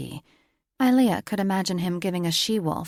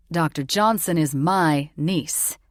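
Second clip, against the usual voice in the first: warning; 5 dB louder, slower than usual. A narrator's reading. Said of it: "the warning look her uncle gave Richter".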